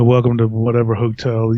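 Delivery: deadpan. Retold or imitated. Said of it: "such a deadpan, I don't give a fuck voice".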